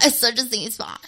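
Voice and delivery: mock-creepy reassurance. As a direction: play it lightly creepy. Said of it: "That was creepy".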